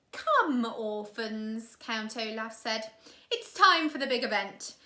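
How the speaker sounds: loom in with menace; sinister villain. Acted. Count Olaf orders.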